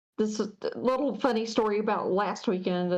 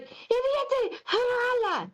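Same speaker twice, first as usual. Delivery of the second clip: high answering cheer; 11 semitones higher, much slower than usual. Retold or imitated. Worker retells answering the manager's cheer in practice Ukrainian, high mock yell. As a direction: sing out a mock cheer, much higher.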